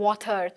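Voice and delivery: water with the R fully sounded at the end; old British water with its R; R fully pronounced. Shown as a demonstration. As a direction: say the whole word water, R and all. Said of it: "वाटर को पूरा बोलते".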